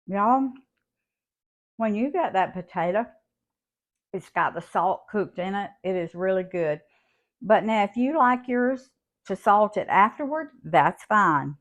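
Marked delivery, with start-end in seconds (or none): 0.1-6.8 talking with mouth full; tasting off spoon. Real, not acted. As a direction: speak around a bite of salad. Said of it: "I'm gonna see if it needs more salt".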